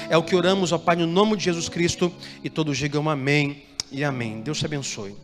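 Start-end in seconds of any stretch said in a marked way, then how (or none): none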